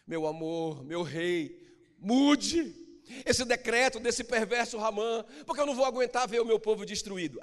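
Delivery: high, pleading plea to the king; pleading queen. Acted. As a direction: beg the king to spare her people. (rainha suplicando ao rei)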